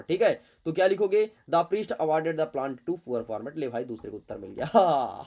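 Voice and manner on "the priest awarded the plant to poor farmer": each word read out very slowly; slow, careful read-aloud; slow dictation. Shown as a demonstration. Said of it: "reading the answer out slowly".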